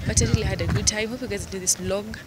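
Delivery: worn out voice after losing it last night; talking with a lost, tired voice. Real, not acted. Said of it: "my voice is kinda bad".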